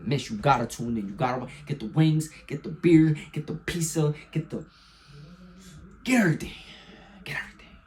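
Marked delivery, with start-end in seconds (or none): 2.5-6.5 hyped call. Real, not acted. Hyping game-day snacks, then echo. 7.2-7.8 whispered echo. Real, not acted.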